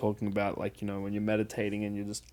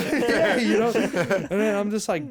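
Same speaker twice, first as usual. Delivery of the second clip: laughing while talking; 10 semitones higher, 7 dB louder, slower than usual. Real, not acted. Laughing after the joke.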